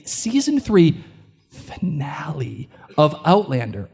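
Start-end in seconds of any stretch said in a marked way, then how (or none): 1.5-3.9 stage whisper. Acted. Mock-dramatic reveal of finale.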